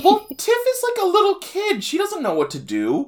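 very high giggly voice; laughing. Real, not acted. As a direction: talk through giggles. Laughing explanation.

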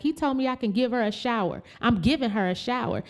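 fast, high, heated protest; heated arguing. Retold or imitated. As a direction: argue back hard. Arguing with staff.

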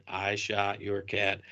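low, slow, soft mumble; mock menacing mutter; quoted line, muttered. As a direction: drop the voice and say it slowly under your breath. Retelling an actor's quoted line.

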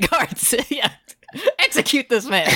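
high, hammy royal command; roaring tyrant king. Acted. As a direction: order the execution like a pompous king. Joins the king bit.

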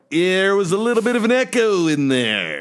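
lightly exaggerated sing-song announcing; odd put-on talk. Co-host explaining last podcast's echo to listeners, odd put-on voice. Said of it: "What's wrong with you? ... Why are you talking like this?".

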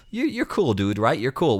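half-hammed pushy mate act; pushy fake friendliness. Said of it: "aggressively affectionate with me".

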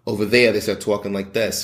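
Brooklyn-style Italian American accent; lightly put-on New York Italian American accent. Shown as a demonstration. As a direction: talk like a Staten Island Italian American. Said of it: "automatically Italian American is".

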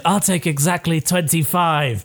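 put-on cute kid voice. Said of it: "I'll say".

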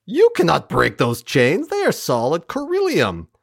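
lightly imitated mocking taunt; a hint of a scoffing ruler; mocking emperor. Emperor mocks the chained prisoner, lightly mocking. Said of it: "and mocks him".

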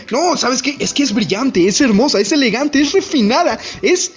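mock lovestruck rave; gushing praise. President raving about Kaguya, lightly hammed-up gushing.

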